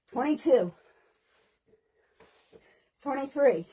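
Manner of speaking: loud, steady rep count. Acted. Fitness coach counting reps out loud to class. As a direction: call out each number to the class.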